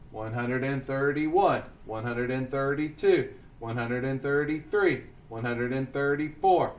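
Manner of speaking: steady skip-counting with the class; measured count, a short gap after each number; counting aloud. Shown as a demonstration. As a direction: chant the numbers in an even classroom rhythm.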